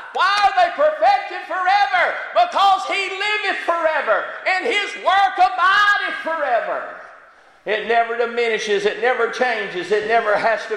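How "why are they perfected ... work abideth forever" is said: chanting preacher; preaching at full force. Acted. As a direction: ring it out like a revival climax. Preaching climax.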